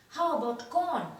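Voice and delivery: a lightly voiced mouse offering corn; eager offer. A narrator's reading. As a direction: offer it up hopefully. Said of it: "asked Bertram".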